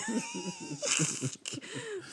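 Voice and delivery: very high, soft squeaky mock sob; thin, high imitation of crying; mock sobbing. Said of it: "I was boo-hooing".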